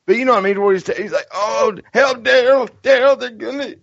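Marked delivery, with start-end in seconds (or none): 1.3-3.8 hammed-up Southern cry, pitched way up; Eugene impression. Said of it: "Does he not do a good Eugene?".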